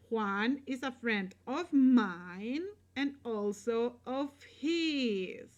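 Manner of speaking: mine and his singled out for emphasis; stress on mine, his. Shown as a demonstration. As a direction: lean on mine, then stretch out his. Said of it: "if you want to emphasize".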